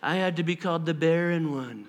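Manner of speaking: low, soft grumbling complaint; mock envy. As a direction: sulk about being passed over, hammed-up. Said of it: "she's not like".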